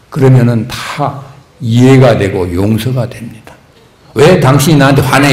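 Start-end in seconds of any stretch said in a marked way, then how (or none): 4.2-5.3 mock scolding. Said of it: "이렇게 꾸짖을 게 아니에요".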